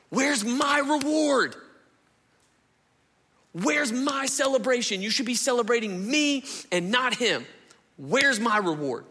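a wronged son crying out for his due; whining tirade. Retold or imitated. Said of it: "he goes on to this tirade".

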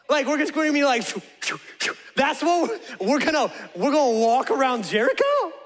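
hammed-up incredulous objection. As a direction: protest the plan as if it's absurd. Joshua disputes God's absurd battle plan.

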